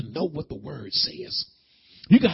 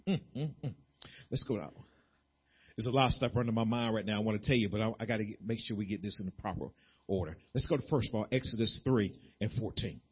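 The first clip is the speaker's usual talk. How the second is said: much softer, fast muttering to himself; low aside; 8 semitones lower, 10 dB quieter, faster than usual. Real, not acted. Preacher muttering aside about his order, softly. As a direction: mumble it under your breath.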